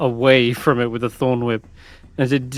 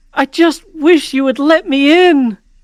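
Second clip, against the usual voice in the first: very high, loud, anguished, distressed voice; 7 dB louder than usual. Narrating a voice heard as the stalactites break, a distressed voice. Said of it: "distressed voice".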